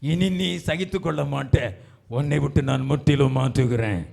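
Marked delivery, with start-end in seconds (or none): 2.2-4.0 firm, steady preaching voice; firm promise. Real, not acted. Preacher voices God's promise of change, firm. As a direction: declare it firmly, holding some back. Promise given, then repeated louder.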